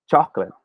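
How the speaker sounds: chocolate as a neat chok-lit; two-syllable pronunciation. Shown as a demonstration. Teacher leading students to repeat, chocolate as chok-lit. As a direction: model "chocolate" with no middle vowel, chok-lit. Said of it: "Say it with me one more time".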